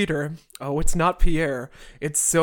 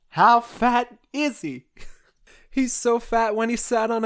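comic setup; 6 semitones higher than usual. Acted. Setting up a fat joke.

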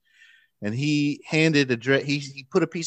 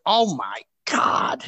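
slow, breathless whisper of amazement; child staring at the bead in her father's hand, whispering in awe; awed whisper; 4 semitones higher, much slower than usual. Retold or imitated. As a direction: hush it out, stunned. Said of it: "gave it a look like I've never seen anything like it".

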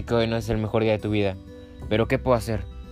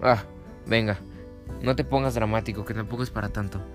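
annoyed. Acted. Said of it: "resopló con fastidio".

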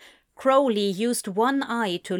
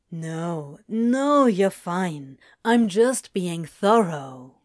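low, reassuring rumble; calm him with a low rumble; 3 semitones lower, slower than usual. A narrator's reading. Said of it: "Crowley reassured him, his voice a low rumble".

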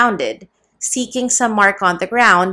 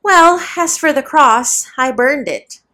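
slow, yawning start; 6 semitones higher, 4 dB louder than usual. A narrator's reading. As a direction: say it through a yawn. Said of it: "answered with a yawn".

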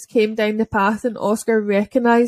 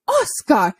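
higher, retold call of the dog's name; 5 semitones higher than usual. Rider shouting at the dog, raised call. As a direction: rider calling the dog sharply. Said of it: "the woman shouted".

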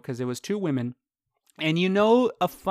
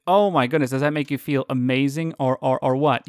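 exasperated; 6 dB louder than usual. Retold or imitated. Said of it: "it's like".

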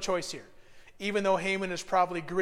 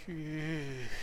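disgusted groan; 8 dB quieter than usual. Retold or imitated. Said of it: "start going".

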